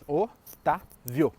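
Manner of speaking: "Otávio" pausado: o, tá, vio; três sílabas separadas. Shown as a demonstration. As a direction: manter o VIO final de "Otávio" numa sílaba só. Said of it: "só tinha três sílabas". (o... tá... vio, contando as sílabas)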